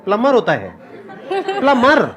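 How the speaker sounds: "प्लम्बर" repeated as plummer, B left out; silent B. Shown as a demonstration. Amused student testing the corrected word, silent B. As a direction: try out "प्लम्बर" without its B, ending in -mmer. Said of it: "बी silent है".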